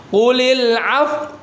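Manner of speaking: Qulil af- with lips pushed forward, slow; lips pursed. Shown as a demonstration. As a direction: round the lips into a pout on af-. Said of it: "diberikan monyong isyaratnya".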